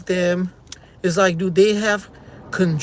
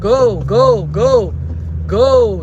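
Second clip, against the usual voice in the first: louder impatient go go go; frustrated go go; 2 semitones higher, 6 dB louder, much slower than usual. Real, not acted. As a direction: push them through the light, exasperated. Yelling at cars not moving.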